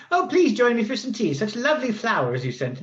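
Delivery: gracious, sweet invitation to tea; lady's voice. Acted. GM voices Lady Victoria.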